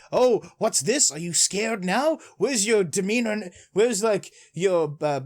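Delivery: mildly mocking taunt; trash-talking. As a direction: imitate a cocky rival's taunts. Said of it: "Ryo is shit-talking him".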